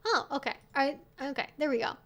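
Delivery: ordinary delivery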